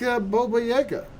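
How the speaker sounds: a playful high singsong on Baba Yaga; sing-song. Pretend. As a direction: chant Baba Yaga like a spooky rhyme. Sing-song naming of the monster.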